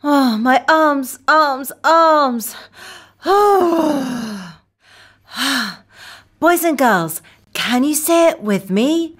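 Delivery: put-on clear, bright teacher voice for children; kids show host. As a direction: lead the little ones in a chant. Kids show host drilling words.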